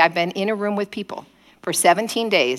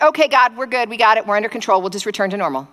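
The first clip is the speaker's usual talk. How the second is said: higher start, settling as it goes; breezy dismissal; 4 semitones higher than usual. Acted. Israelites telling God they're fine now, breezy dismissal. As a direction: brush off the helper once rescued.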